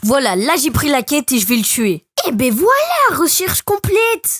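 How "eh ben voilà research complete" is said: high, drawn-out English in a French accent; French accent on English, pitched up. Real, not acted. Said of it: "jugez pas mon accent anglais".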